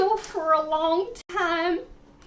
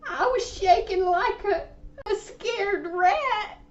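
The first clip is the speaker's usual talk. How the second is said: hammed-up crying; 3 semitones higher than usual. Caller retells mouse scare.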